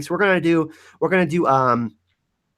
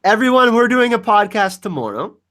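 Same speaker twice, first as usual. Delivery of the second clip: excited announcement; 7 semitones higher, 5 dB louder than usual. Real, not acted. Announcing to the audience.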